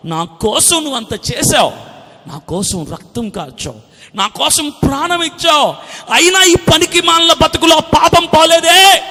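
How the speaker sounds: anguished lament, building to a high shout; fervent, acted cry of repentance; demonstrated crying prayer. Shown as a demonstration. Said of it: "అది ఏడు".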